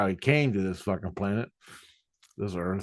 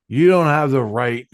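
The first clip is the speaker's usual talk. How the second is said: raised, louder retold yell; 3 semitones higher, 6 dB louder than usual. Arguing back at Jesus in a mouth war, retold yell. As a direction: imitate yelling your refusal in an argument. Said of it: "I'm screaming, and I go".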